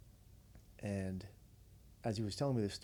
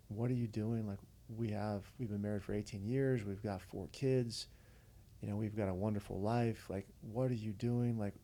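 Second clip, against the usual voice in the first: mildly agitated retold rant; a touch of exasperated outburst; going off. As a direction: imitate pleading disbelief, piling up questions. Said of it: "he was just kinda going off".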